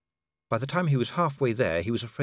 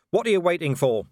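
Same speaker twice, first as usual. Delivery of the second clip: loud, raised challenging question; yell; 7 semitones higher, 5 dB louder than usual. A narrator's reading. Vimes goads the waiting werewolves, yelling. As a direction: call it out, high and loud. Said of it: "Vimes yelled".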